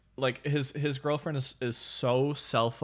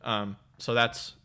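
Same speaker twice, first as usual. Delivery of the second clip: talking through swollen cheeks; swollen mouth. Real, not acted. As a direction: speak as if jaw swollen after surgery. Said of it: "I'm talking a little funny".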